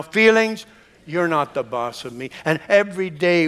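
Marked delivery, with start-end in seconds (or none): 0.0-2.3 Feelings called out firmer, then a firm you're not the boss of me; with more conviction. Shown as a demonstration. Congregation urged to repeat it, now with more conviction. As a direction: say it like you mean it. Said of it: "with more conviction now".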